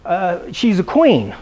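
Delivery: dad boasting about Gracie; proud old dad. Retold or imitated. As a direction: savour "queen" like a proud old man. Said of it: "he's like".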